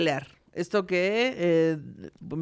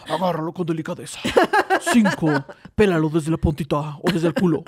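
computer voice; 4 semitones lower than usual. Pretend. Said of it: "con una voz así, toda de computadora".

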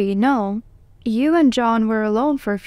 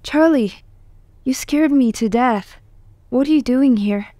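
startled; 2 semitones higher, 3 dB louder than usual. Acted. Jessica to Charlie who scared her, startled. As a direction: react to a sudden scare, scolding lightly.

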